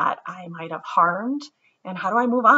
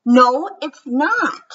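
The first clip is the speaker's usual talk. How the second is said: put-on slow, louder, higher childish shout; 7 semitones higher, 7 dB louder, slower than usual. Ruthie shouts at Martin before racing to class. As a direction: shout it stubbornly. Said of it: "shouted Ruthie".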